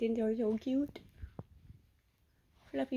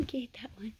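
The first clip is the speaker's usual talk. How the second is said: whisper; 5 dB quieter than usual. Real, not acted. Whispered repeat.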